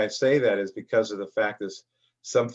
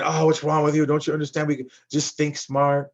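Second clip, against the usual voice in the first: mock berating; 4 semitones higher than usual. Wife berating her husband in a store, mock scolding. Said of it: "berating, uh, maybe her husband".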